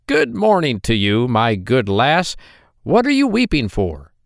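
a droll little man, sly and teasing; hobgoblin voice. Acted. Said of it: "droll-looking little man hobbled in".

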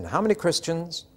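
slipped in as offhand as the roll call; same casual tone. Retold or imitated. Chaplain slipping in a trick question, deadpan offhand. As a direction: ask it like just another denomination. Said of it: "And in the same tone of voice".

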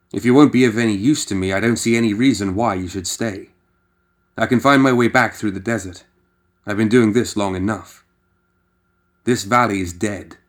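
cold and sure of himself, pushing the guide away; dismissive McCabe. Acted.

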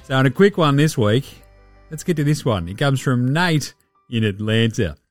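broad Aussie basketballer voice, lightly put on; laid-back Aussie bloke hosting a mock HR show; Joe Ingles impression. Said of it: "Joe Ingles here, head of Jingles H R".

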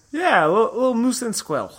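quick cartoon Russian accent, half-laughing; mock Russian accent. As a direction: tease it out like a hammy cartoon Russian villain. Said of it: "Boris and or Natasha'd".

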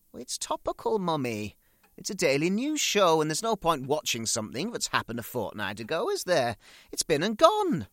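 loud, high protest; loud aggrieved son; indignant retort. Acted. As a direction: argue back hard and high. Barry arguing with mother.

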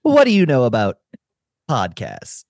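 game character voice. Retold or imitated. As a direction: read it like a stiff game NPC. Mimics game dialogue question.

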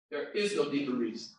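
hushed echo of the shout; quiet repeat. Shown as a demonstration. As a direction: let it sink in quietly. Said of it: "repeated quietly".

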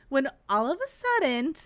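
a light hint of a dramatic dance-teacher build-up; mock suspense, barely voiced; Abby Lee impression. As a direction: tease the twist like a reality-show coach. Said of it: "that's my Abby Lee impression".

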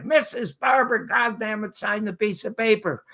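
half-hearted yell of an exasperated crowd; mock crowd yell. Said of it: "yelling at her".

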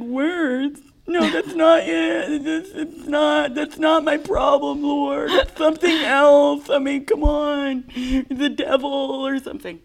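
high, slow, tearful complaining; whiny crying protest. Retold or imitated. Arguing with the Holy Spirit, high slow crying whine. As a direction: whine and half-sob the denial. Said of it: "in that same whiny voice".

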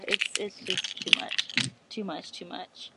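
soft, breathy fading repeats; trailing off, barely holding it together; near tears. Real, not acted. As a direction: voice dropping away in distress. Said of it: "I wanna cry right now".

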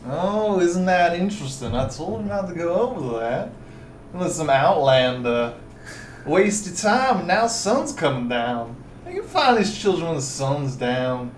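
a hint of a slurry southern magistrate; southern accent. Southern magistrate chiding adventurers over lost time, slurry. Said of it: "Why are you southern?".

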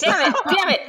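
real frustrated shout, loud and high; exasperated outburst. Real, not acted. Player botched her character's accent, exasperated shout. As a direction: curse your own slip, half laughing. Annoyed at using wrong accent.

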